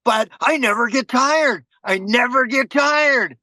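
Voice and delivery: mock yell of a crazy Marine; crazy Marine shouting. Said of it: "he says".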